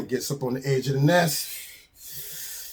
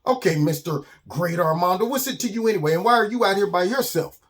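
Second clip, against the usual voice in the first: higher, quick retort; Simon the touchy bird; 4 semitones higher than usual. Acted. Bird challenges the self-styled great skunk, touchy. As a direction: throw the questions back sarcastically.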